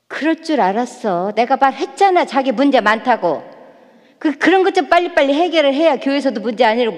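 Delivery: tossing off an "I told you so" at the partner; nagging spouse. Retold or imitated. Spouse blaming the hurting partner, a hammed-up nagging scold. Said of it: "막 이러는 거예요".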